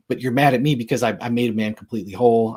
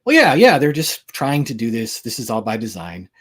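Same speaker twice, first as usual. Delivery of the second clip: mock skeptic objection; 4 dB louder than usual. Speaker voicing an imagined critic, in a mock skeptic voice. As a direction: brush it off like a doubter, then settle down. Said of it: "Now you could say".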